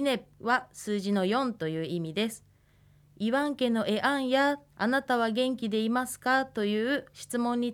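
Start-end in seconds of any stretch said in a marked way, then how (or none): 3.2-4.6 いわんけのえあんや with a slight rise on the final や; question rise. Shown as a demonstration. Teacher models the Ainu question for students, rising ending. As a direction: lift the end of いわんけのえあんや on や. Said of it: "少し語尾を上げるように".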